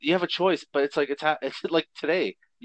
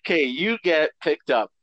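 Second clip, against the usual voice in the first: Coneheads voice; 4 dB louder than usual. Acted. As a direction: speak like a formal alien ambassador. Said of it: "that was their voice I was doing".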